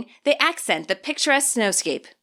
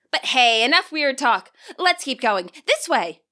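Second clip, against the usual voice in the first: Nimona, brisk; 2 semitones higher than usual. Acted. Nimona urging the group onward, briskly cheerful. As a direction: brush it off and press onward.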